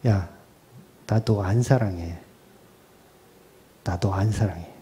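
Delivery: low, soft, firm voice of God; preacher voicing God, quietly flat-out refusing the believer; God answering firmly. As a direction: hand down a calm, final refusal as God. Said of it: "이 질문에 하나님은 단호하셨어요".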